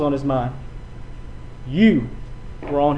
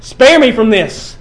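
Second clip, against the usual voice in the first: loud, higher, slow plea; crying out; 5 semitones higher, 8 dB louder, slower than usual. Acted. The Son crying out to the Father, loud slow plea. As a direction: cry the words out slowly to the Father. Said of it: "his only begotten cries out".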